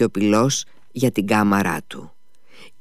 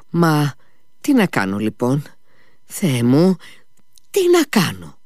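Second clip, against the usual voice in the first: acted helpless plea, pitched up; at a loss; 5 semitones higher than usual. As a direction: pause between phrases, rising into despair. Mitia despairing over the sleeper. (απελπισμένη απορία)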